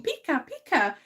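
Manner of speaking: lightly retold cartoon creature squeak; Pikachu voice. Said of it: "and I would be Pikachu".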